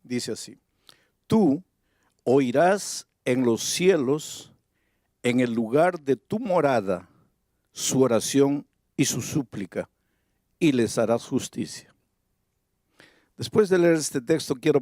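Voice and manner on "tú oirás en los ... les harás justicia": scripture reading. Acted. Preacher reading a verse to the congregation, solemn. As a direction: read the prayer with reverence.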